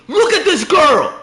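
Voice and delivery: high, loud exclamation; excited shout. Real, not acted. Streamer showing off a female character, shouting excitedly. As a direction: shove the clip in their face. Pointing at gameplay.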